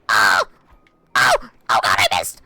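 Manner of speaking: loud cry of dismay; frustrated shout. Real, not acted. Streamer missing his hit, shouting in frustration. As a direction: bark out the miss. Missed attack in game.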